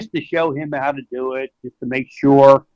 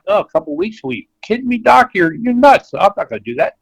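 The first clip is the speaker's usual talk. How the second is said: mock-incredulous, pitched higher, scoffing at the doctor; 5 semitones higher than usual. Owner imitated scoffing at the vet's timeline, higher incredulous mock voice. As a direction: play the doubting horse owner waving off the idea.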